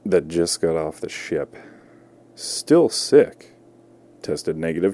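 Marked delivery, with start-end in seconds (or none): 2.4-3.6 mock outraged yell. Mocking the sick guy on news.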